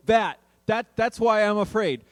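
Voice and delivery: loud, insistent retort; exasperated protest. Acted. Disciples answering Jesus, loud and exasperated. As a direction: protest loudly, as if it's obvious.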